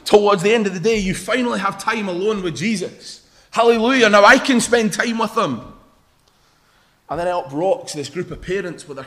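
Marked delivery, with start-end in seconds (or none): 3.5-5.6 elated relief. Acted. Acts out a relieved disciple.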